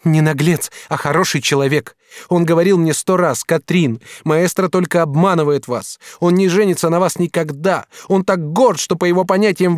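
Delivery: lightly voiced young woman, reproachful; young woman's voice. Katrin reproaching the master, lightly voiced woman.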